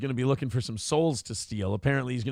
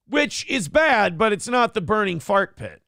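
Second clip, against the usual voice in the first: slow deadpan; 5 semitones higher, 4 dB louder than usual. Real, not acted. Deadpan comment after scripture.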